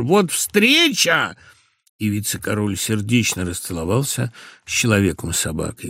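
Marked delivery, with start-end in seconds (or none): 0.0-1.3 delighted surprise. A narrator's reading. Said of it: "воскликнул".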